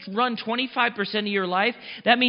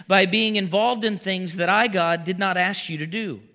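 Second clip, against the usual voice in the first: prophetic word read aloud. Acted. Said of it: "and I wrote it out".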